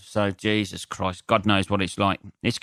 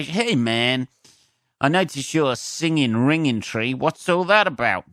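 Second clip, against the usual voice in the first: pandering comic; 5 semitones higher than usual. Retold or imitated. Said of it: "I could make, uh, ingra".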